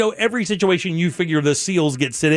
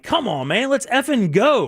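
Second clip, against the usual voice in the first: impatient driver yell; 8 semitones higher than usual. Retold or imitated. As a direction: pitch jumps higher, mock exasperated honk-along. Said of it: "I'm like".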